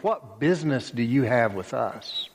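a bit of mockery; mocking. Demons taunting Jesus, a touch mocking. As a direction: sneer at him lightly. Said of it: "There's a bit of mockery".

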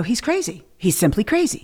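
put-on soft drunken aside; quiet aside. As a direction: say it softly to camera. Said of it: "I go".

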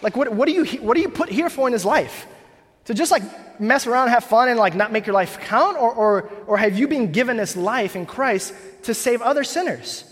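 a missionary's blunt, urgent rebuke; blunt and plain. Retold or imitated. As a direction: lay it out plainly to the church. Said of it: "She's like, really plainly".

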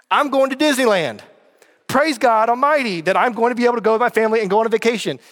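really pumped about going away. Real, not acted. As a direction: exclaim it with real excitement. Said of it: "I am pumped".

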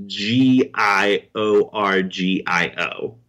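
letters spelled one by one; spelling it out. Shown as a demonstration. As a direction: spell out each letter slowly. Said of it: "please spell for me".

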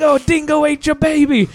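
high lightly faked Australian line; mock Australian. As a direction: toss off a hint of Australian accent. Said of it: "Tropic Thunder".

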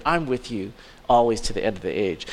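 low, soft coddling reassurance; gently mocking tender promise; mock comfort. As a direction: murmur it like a soothing pat on the back. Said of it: "I'm not sure if that's exactly what Jesus is saying".

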